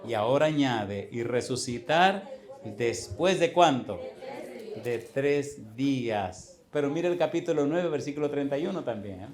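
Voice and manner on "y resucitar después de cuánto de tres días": slow scripture reading. Acted.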